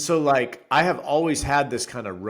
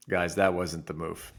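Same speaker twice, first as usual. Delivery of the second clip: calm apology; 4 semitones lower, slower than usual. Retold or imitated. Dad apologizing to kids.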